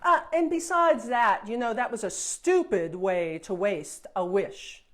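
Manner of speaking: loud scornful jab; mock her choice with contempt; sneering princess. Princess sneering at Jane's wasted wish, loudly scornful.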